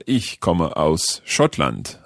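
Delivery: very slow, careful "Ich komme aus Schottland"; slow learner German. Shown as a demonstration. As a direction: say each German word slowly. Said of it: "learner tries German sentence".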